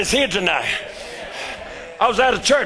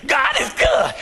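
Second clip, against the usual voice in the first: rote God is good. Retold or imitated. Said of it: "you, you just go".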